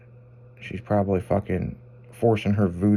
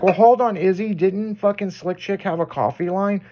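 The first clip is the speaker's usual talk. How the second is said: mock listener voice; 8 semitones higher than usual. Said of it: "some people, it's like".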